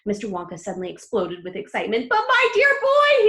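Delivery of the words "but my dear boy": high, loud and slow with delight; excited cry. A narrator's reading. Wonka crying out to Charlie in delight. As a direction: cry it out, overjoyed. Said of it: "he cried out".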